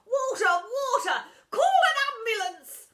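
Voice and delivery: high, loud choking cries for help; 1 panicked cries. Acted. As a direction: yell for water, gasping. Pupils choking on stink.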